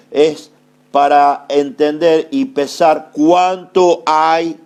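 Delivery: slow, stretched-out pulpit cadence; emphatic preaching. Real, not acted. Preacher explains the sieve to the congregation, slow emphatic preaching. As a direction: preach it slowly, weighing each phrase.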